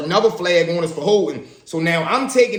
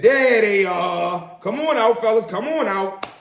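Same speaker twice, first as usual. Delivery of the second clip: found you; 4 semitones higher, slower than usual. Retold or imitated. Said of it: "he said".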